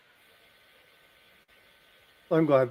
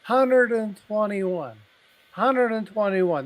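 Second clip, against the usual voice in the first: mock high, slow drunk lady voice; tipsy lady; 6 semitones higher, 5 dB louder, slower than usual. Half-drunk lady stomping round the graves, in a mock high, slow voice. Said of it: "she's half drunk and she's stomping around".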